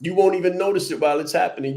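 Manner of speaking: won't stressed, said quickly; brisk, pushed restatement. Shown as a demonstration. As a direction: rush the repeat. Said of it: "repeated faster".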